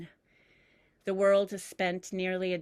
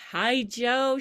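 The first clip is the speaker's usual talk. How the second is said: excited greeting; 5 semitones higher, 7 dB louder than usual. Acted. Grandmother greeting.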